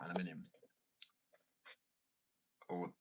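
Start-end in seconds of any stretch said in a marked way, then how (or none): 0.0-0.5 aluminium stressed firmly, British style; aluminium said proudly the British way; British pronunciation. Pretend. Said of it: "I'm gonna be like".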